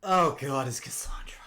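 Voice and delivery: whisper. Real, not acted. Player realises who it is.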